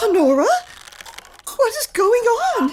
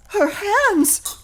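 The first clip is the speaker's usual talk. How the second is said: crying out in horror; crying in shock; horrified crying; 2 semitones higher, slower than usual. Acted. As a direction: gasp at the ruined hands. Wife sees ruined hands.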